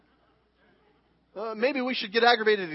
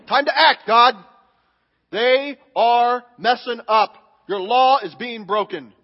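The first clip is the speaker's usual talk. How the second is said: indignant paraphrase; 5 dB louder than usual. Retold or imitated. A believer demanding God punish lawbreakers, loud and indignant. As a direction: demand God act right now. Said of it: "Kinda like scriptures like that".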